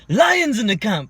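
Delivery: high, loud, drawn-out yell imitating a hype chant; mock yelled war cry. Podcast host mocking a boxer's camp slogan, yelled. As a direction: stretch LIONS into an imitated battle cry. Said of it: "and then yell".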